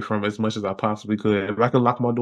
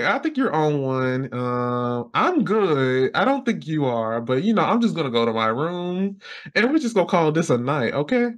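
higher, mock-patient and sing-song; sarcastic brush-off; 4 semitones higher than usual. Son brushing off his angry mom, high and mock-patient. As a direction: talk her down like a child.

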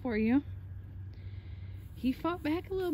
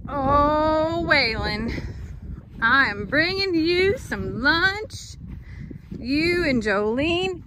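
calling out; 3 semitones higher, 5 dB louder, much slower than usual. Real, not acted. Calling animals across the pen.

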